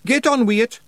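high, loud Scottish shout; Feegle shout. A narrator's reading. Rob shouts at Roland to hurry, loud Scottish brogue. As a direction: wee Feegle yelling to hurry. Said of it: "shouted Rob Anybody".

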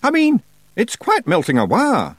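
high nervous Scots voice; nervous Scottish Feegle. A narrator's reading. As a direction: smile nervously through it. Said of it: "smiling nervously".

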